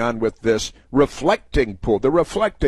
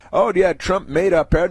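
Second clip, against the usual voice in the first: mocking critics; 7 semitones higher than usual.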